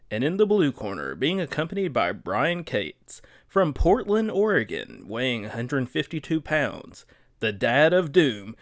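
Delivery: booming boxing ring announcer hype. Acted. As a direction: announce the fighter like a prizefight. Boxing intro of the blue corner.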